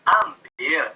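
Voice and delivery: firm order, falling; commanding. Shown as a demonstration. Lecturer demonstrating ambil as an order. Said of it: "Itu perintah ya".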